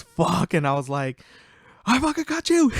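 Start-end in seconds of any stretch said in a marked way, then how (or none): 0.0-0.5 higher, louder retold curse; mock exasperation. Repeats tricked friend's curse. 1.8-2.7 high, loud victory cry; mock triumphant gloating. Acting out own prank victory.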